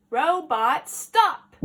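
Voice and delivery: loud title with a rising end; playful title call. Acted. Teacher repeating the title to the children, loud and rising. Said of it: "reading the story".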